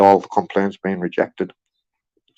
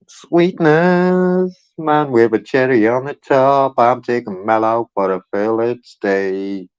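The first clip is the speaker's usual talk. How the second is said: mock posh order; slower than usual. Pretends ordering steak in posh voice.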